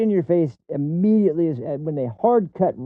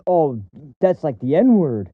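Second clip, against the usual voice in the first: mock outrage. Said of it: "He is acting like".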